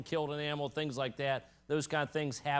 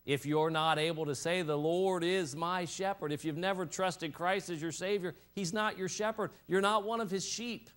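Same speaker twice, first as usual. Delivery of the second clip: emphatic preaching; 7 semitones higher than usual. Real, not acted. Preaching a warning.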